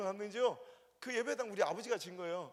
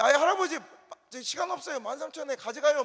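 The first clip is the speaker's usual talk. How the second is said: loud, higher hurried plea; impatient haggling; 5 semitones higher, 11 dB louder than usual. Retold or imitated. Preacher voicing the Gyeongsang pastor pressing the old man, loud and impatient. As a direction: push the old man to sell. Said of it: "말했더니".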